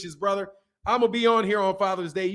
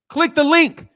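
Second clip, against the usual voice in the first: loud plug; 7 semitones higher, 8 dB louder than usual. Real, not acted. Shouting a plug to viewers.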